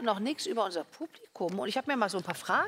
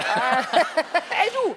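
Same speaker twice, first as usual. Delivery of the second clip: louder call across the classroom; teacher calling out; 4 semitones higher, 6 dB louder than usual. Retold or imitated. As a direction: bark it like an annoyed teacher. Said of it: "was haben die Lehrer gesagt". (lauter Lehrerruf)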